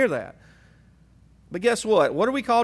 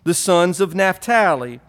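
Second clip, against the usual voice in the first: Southern Hebrew voice. Pretend. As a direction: read the names like a Southern Hebrew redneck. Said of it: "my best Southern Hebrew voice".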